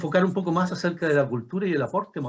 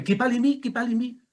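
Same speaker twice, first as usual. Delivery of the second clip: higher-pitched, re-enacted questioning; retold question to pupils; 5 semitones higher than usual. Teacher recalling a question put to Mapuche-speaking pupils, high questioning voice. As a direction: ask it lightly in a raised pitch. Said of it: "una pregunta que le decía".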